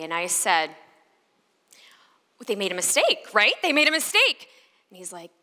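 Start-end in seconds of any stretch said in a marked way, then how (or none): 2.5-4.5 frantic. Retold or imitated. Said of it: "called my agent frantically".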